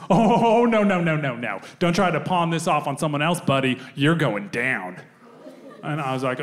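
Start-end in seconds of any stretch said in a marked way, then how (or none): 0.1-5.0 in-your-face cop. Retold or imitated. Cop to the suspect in the airport, confrontational. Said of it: "this cop gets in my face and goes".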